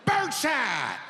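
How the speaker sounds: high, loud gloating shout; triumphant threat. Retold or imitated. Homeowner shooting the burglar, gloating shout. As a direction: gloat as you fire. Fires at intruder.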